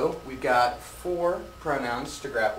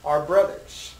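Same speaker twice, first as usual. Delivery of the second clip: slow model sentence; 3 semitones higher, 5 dB louder, slower than usual. Shown as a demonstration. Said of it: "Let's try an example sentence".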